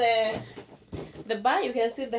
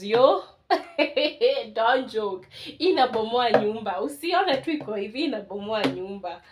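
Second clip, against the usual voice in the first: excited; 6 dB louder than usual. Real, not acted. Hyping the subwoofer's bass.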